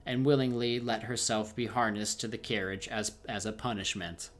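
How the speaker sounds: steady storybook reading voice; story narration. A narrator's reading. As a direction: read the tale aloud to the viewers. Streamer reads second tale aloud.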